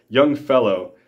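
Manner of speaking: high falsetto. Retold or imitated. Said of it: "he quavered in a high falsetto voice, fairly dripping with scorn".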